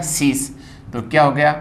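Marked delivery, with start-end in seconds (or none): 0.0-0.5 सीस with a final स instead of ज; correct s ending. Shown as a demonstration. Teacher answers their own question, correct s ending. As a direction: end सीस on a voiceless s. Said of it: "सही उसका उच्चारण क्या है".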